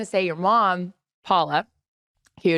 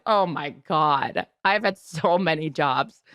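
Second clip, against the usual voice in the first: slow, drawn-out mock groan; sheepishly overwhelmed; a retold embarrassed sigh of a line; 3 semitones lower, slower than usual. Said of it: "I'm like".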